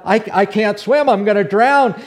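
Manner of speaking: loud, high, stammered alarm; acted panic. Peter in the waves about to drown, acted panic. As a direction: cry out as if about to go under.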